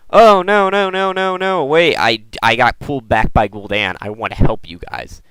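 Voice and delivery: pleading Illidan. Retold or imitated. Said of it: "they could be like".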